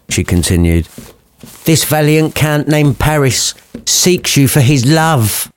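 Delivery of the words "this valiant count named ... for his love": slow, lightly voiced mum; a hint of brassy mother, slowly; mum's voice. Lady Capulet pitching Paris, slow mum voice. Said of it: "the mum ends up talking like that".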